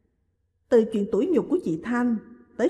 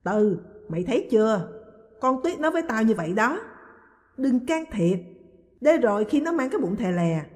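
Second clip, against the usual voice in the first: aunt complaining, a touch louder and higher; mild raised-voice grievance; speaking loudly; 4 semitones higher than usual. Acted. Aunt protesting to Tuyết's mother, mildly raised voice. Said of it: "Bà Ba nói lớn".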